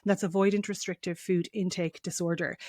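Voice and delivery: careful Mayo accent read. Shown as a demonstration. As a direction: spell out the term in a Mayo accent. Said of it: "attempt to say this in my Mayo accent".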